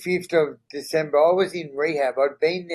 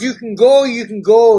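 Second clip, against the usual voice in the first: reassuring release; 7 semitones higher, 10 dB louder than usual. Retold or imitated. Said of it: "she goes".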